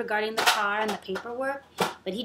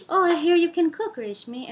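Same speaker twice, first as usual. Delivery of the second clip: higher, louder opening on a quoted come-on; retold manager's line; 6 semitones higher, 6 dB louder than usual. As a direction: lightly voice the chatty boss, dropping on the name. Retelling the manager's overfriendly chat.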